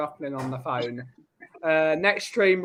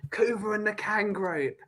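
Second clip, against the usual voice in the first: whispered gang name; mock secret whisper; 5 dB quieter than usual. Co-host whispering the gang's name for effect. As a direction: hush it like a secret code.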